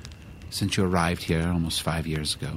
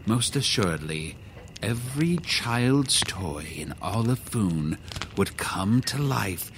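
portentous wizard. Acted. Wizard warning of powerful secret names, portentous. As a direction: intone it like a solemn mystic.

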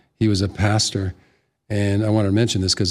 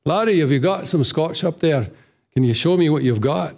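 higher-pitched Scottish brogue; Scottish accent; 5 semitones higher than usual. Retold or imitated. Man ordering Scotch from the bartender, Scottish accent. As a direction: pass yourself off as a Scot. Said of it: "let them think I'm from Scotland".

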